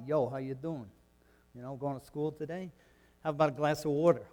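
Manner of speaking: South Jersey accent, lightly imitated; Rocky. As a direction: do a casual mock South Jersey tough-guy accent. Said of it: "everybody talked like Rocky".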